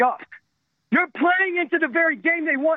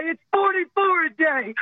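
crying shout. Real, not acted. Veteran suicides, caller's voice breaking.

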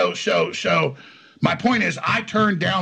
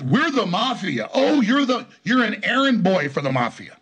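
mocking scorn; 4 semitones higher than usual. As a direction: throw their boast back with contempt. Mocks opponent's mafia boast.

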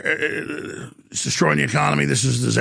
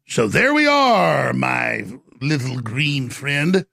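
dramatic shout; much slower than usual. Real, not acted. Dramatic sign-off.

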